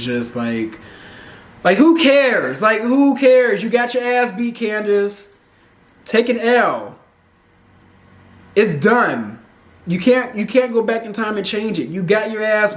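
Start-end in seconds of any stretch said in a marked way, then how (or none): 1.6-11.0 exasperated scolding. Real, not acted. Host scolding Candace for the fight, exasperated and slow. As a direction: drag out who cares with disdain.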